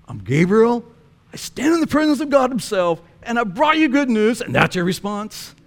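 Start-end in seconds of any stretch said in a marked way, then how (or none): 0.1-4.4 Gabriel going off. Retold or imitated. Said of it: "he just kinda goes off".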